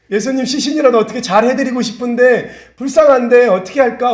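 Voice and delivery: high-pitched mock lament; imitated weeping. Preacher voices Mary grieving at the tomb, imitated weeping. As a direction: plead tearfully, imitating a mourner. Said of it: "울고 있는 거예요".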